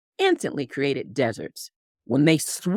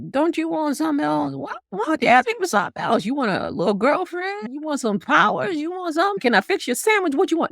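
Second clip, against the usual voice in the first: high, rushed, coaxing voice of a worried god; pleading god Apollo; 10 semitones higher than usual. Retold or imitated. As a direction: plead with the boy to pick anything else. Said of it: "So it was like".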